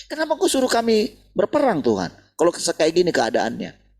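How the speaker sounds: high, loud, pleading protest; mock complaint to God. David protesting to God over the war, high loud complaint. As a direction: cry out at God like a wronged leader.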